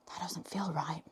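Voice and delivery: soft whisper to herself; a hushed, unvoiced aside. Real, not acted. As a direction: whisper it as a private worry. Worried aside about her fitness.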